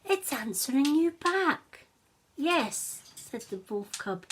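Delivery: put-on a young wolf hoping to find its parents; lightly voiced wolf pup; eager wolf cub. Wolf cub speaks, higher.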